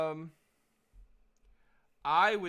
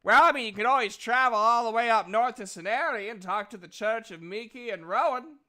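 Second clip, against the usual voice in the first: Warforged giving advice; 8 semitones higher, 9 dB louder than usual. Acted. Game master plays advising Warforged.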